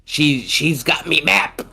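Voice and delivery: slow pirate thug growl; gruff villain pirate talking slowly; Arlong voice. Retold or imitated. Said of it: "good Arlong voice".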